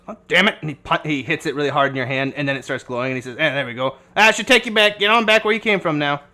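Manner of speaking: lightly voiced old doctor, pushing them along; gruff old doctor. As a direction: shoo them home, a bit impatient. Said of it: "he goes".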